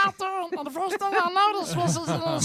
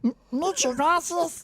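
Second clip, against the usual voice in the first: mock Spanish accent, slow; hammed-up Spanish accent. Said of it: "with a little Spanish accent".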